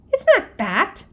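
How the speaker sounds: high, loud defensive shout; boy yelling to defend his crush. A narrator's reading. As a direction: yell it to defend her. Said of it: "I shouted".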